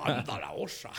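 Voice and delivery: a quick Spanish-accent take of the line; light Spanish accent, with a grin. Shown as a demonstration. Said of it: "con acento español".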